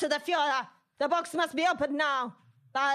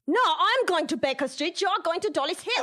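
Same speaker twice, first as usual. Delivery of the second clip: sharp correction; 4 semitones higher, 5 dB louder than usual. Acted. Correcting the confused baron.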